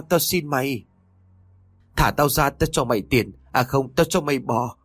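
put-on high, pleading old man bargaining; terrified old man begging for mercy. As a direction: beg and bargain for his life. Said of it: "miệng bắt đầu van xin".

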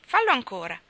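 put-on angry boy's challenge; angrily. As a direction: spit the dare out in anger. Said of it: "disse Staffy rabbiosamente".

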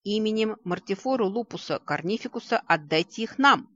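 werewolves yelling. Acted. Werewolves running at the wall demand the prisoners, yelling. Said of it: "заорали подбегающие к стене оборотни".

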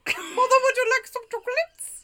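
high, laughing Gump imitation; Forrest Gump voice. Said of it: "It was Forrest Gump".

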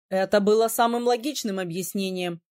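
a hint of a surprised young man; lightly voiced prince. A narrator's reading.

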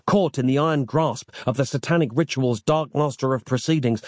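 ordinary delivery, nothing marked

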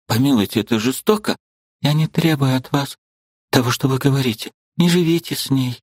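put-on pleading young woman. A narrator's reading. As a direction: press him gently but insistently.

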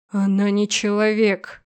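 медленно, глухо, с угрозой; лёгкий намёк на рычание; низкий рык генерала. Acted. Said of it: "Рык генерала стал ещё ниже". (генерал глухо отрезает невесте, медленно)

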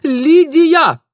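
very high, very loud shriek of a name; piercing yell. A narrator's reading. Ingvar shrieking Lidia's name, piercing. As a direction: scream it across the pier. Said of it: "Пронзительный вопль".

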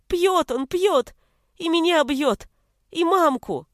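put-on mild child's outburst; child's shout. A narrator's reading. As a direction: blurt it out, crying for help. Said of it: "закричал".

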